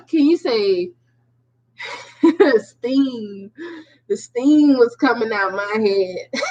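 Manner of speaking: laughing. Real, not acted. Laughing about her anger.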